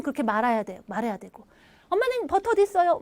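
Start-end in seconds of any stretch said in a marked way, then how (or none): 1.9-3.0 put-on higher childlike question; a kid asking where the butter is; child asking mom.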